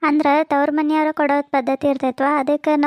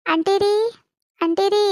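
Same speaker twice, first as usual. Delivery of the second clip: higher-pitched call with a rising end; polite summons, pitched up; 4 semitones higher than usual. Acted. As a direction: call for auntie, lifting the last syllable. Calling the aunt over.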